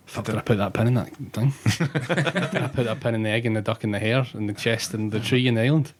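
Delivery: rising worried rush; panicked self-doubt. Pretend.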